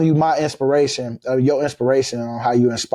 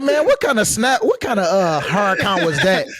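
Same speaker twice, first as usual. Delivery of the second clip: mocking teasing quote; 8 semitones higher, slower than usual. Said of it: "I'd be like".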